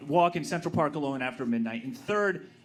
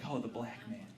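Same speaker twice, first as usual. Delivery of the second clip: realizing; 7 semitones lower, 11 dB quieter than usual. Retold or imitated. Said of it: "I'm like".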